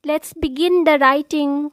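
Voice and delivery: emphatic, measured opening declamation; formal declamation. Acted. Host urging new poets to write, formal declamation. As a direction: proclaim it to an audience, key words punched.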